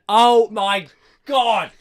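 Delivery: a long, pained groan of disbelief; drawn-out exasperated cry. Real, not acted. Complaining to her co-host about the villain, drawn-out cry. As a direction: stretch out oh my God, high and loud. Reacting to the bad guy.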